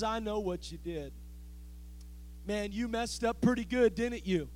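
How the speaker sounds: quiet, scornful, accusing tone; voice of condemnation. Acted. Preacher voicing a self-righteous saint judging a newcomer, quietly scornful. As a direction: look down on them and judge them. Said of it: "That's the voice of condemnation".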